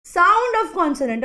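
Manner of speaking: put-on slow classroom repetition for the kids; very slow repeat. Shown as a demonstration. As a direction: drag out "sound of consonant" word by word. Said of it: "ये sound of consonant के साथ लगती है".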